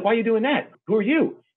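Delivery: high, startled question; surprised woman. Retold or imitated. Startled shopper asks the stranger paying her bill, high surprised voice. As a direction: mimic her shock at the stranger.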